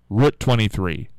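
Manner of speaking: Route with a short oo, as in foot; short-vowel pronunciation. Shown as a demonstration. Host trying what locals wouldn't say, short-vowel Route. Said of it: "don't think we would say route".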